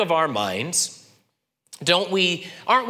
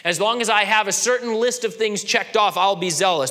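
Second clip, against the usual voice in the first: petulant conditions; 5 semitones higher than usual. Retold or imitated. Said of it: "what you're saying is".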